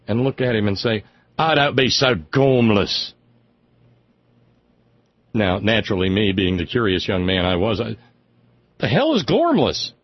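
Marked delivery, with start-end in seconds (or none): 1.4-3.1 Cambridge English lady's scolding, slowed; imitating an old English friend scolding; mild English accent, slow and scolding. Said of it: "she never lost the accent". 8.8-9.9 puzzled. Retold or imitated. Young self asking, puzzled.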